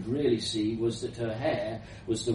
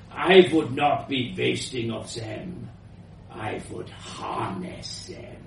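put-on elderly foreign woman. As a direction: state the scheme in a foreign accent. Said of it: "elderly woman's voice, powerful and slightly foreign".

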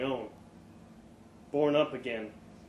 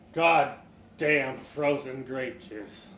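forcing the words out; much slower than usual. Acted. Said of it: "wetting his lips to push the words out".

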